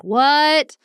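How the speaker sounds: high, loud mock shock; retold astonishment. Tourists hearing the Pope is coming, retold astonishment.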